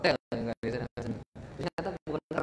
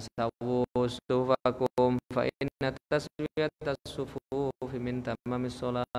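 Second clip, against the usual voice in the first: slow recited Arabic; announcer reminder; 2 semitones lower, slower than usual. Retold or imitated. Preacher quoting the prayer-row reminder, slow. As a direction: recite it slowly like the mosque reminder. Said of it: "wong ada peringatan".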